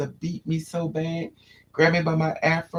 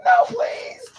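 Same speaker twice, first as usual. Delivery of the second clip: very high begging cry; mock terrified kid pleading; pleading child; 4 dB louder than usual. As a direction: beg in a high panicked voice. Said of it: "I was like".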